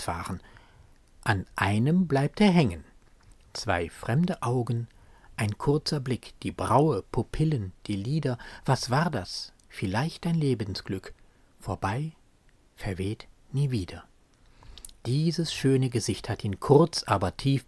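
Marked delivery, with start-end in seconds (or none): 3.5-14.0 measured poetry reading with deliberate pauses; solemn spoken poem; poem recitation. Acted. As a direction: recite it as verse, letting short phrases stand alone. Quotes the poem between commentary.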